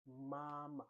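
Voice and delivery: MAMA with a long, level first MA. Shown as a demonstration. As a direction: Mandarin first tone on MAMA, second syllable short. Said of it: "This is the first tone".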